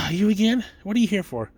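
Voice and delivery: mildly put-out gatekeeper greeting a repeat caller; a hint of an unwelcoming receptionist; dismissive gatekeeper. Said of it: "mess with the gatekeeper a little bit".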